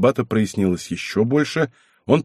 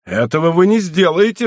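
raised, higher-pitched protest; acted exclamation, pitched up; crying out; 6 semitones higher, 4 dB louder than usual. A narrator's reading. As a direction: cry out in protest. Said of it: "вскричал Мацко".

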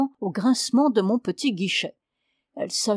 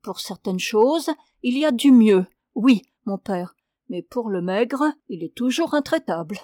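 embarrassed penitent; 3 dB louder than usual. Acted. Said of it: "Avec embarras".

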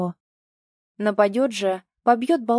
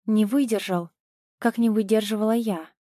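usual speaking voice

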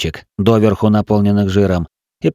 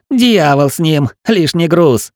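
shouting; 6 semitones higher, slower than usual. A narrator's reading. Shouting in the chase.

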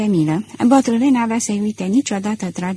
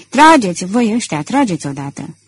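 mild shout. Acted. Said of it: "Strigă la oamenii lui".

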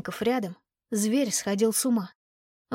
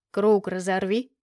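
fire demon. Acted. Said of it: "приказал он".

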